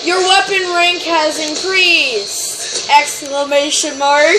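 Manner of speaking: slow, deliberate game announcement; mock announcer. Player reads rank message aloud, slow mock announcer. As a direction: read it out grandly, word by word.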